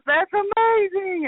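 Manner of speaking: high, drawn-out gushing delight; retold amazement. Quoting his reply to her message, excited.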